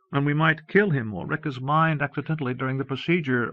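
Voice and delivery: rising anguish toward a grim duty. Acted. Despairing son facing his father's death, high and anguished. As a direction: voice pitched high with distress. Anguished dialogue about killing Papa.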